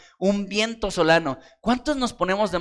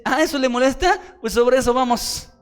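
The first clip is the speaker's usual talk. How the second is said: God voiced; 7 semitones higher than usual. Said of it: "Y Dios dice".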